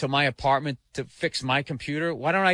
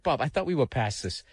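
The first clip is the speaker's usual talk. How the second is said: calm; 2 semitones lower, 3 dB quieter than usual. Retold or imitated. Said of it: "remained calm".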